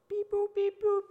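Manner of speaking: high beeping dial tones; robot voice. Pretend. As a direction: beep like a phone keypad. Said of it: "that's you dialing".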